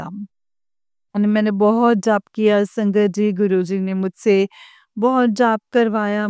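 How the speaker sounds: ordinary talk, nothing marked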